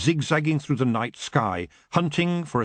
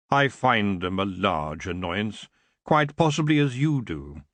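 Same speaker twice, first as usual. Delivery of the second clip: lazy, smooth elf king; 3 semitones lower than usual. Acted. Elf king apologizing to Tiffany, lazy and smooth. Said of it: "his voice smooth and delicious".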